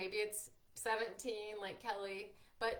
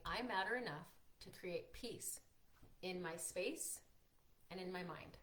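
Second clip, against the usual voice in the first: sincere affirmation; 5 dB quieter than usual. Shown as a demonstration. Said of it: "And I'll repeat that again".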